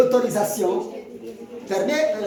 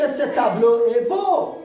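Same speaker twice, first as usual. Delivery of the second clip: admiring exclamation; 4 dB louder than usual. Shown as a demonstration. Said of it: "elle finit par un point d'exclamation".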